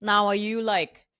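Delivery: gently doubtful dad asking; dad's questioning, climbing high on voice; dad's gentle doubt. Retold or imitated. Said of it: "He's like".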